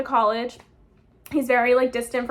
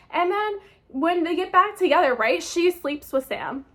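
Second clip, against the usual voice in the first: heated rant. Real, not acted. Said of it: "I'm just getting heated".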